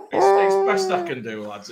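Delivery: high, loud protest through laughter; laughing. Real, not acted. Defending his bad accent to the lads, laughing hard. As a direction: plead your case while cracking up. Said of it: "I'm laughing".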